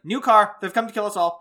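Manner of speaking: hammed-up neighborhood alarm; mock panic. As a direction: cry out like a panicky neighbor, playfully. Mimicking alarmed neighbors online.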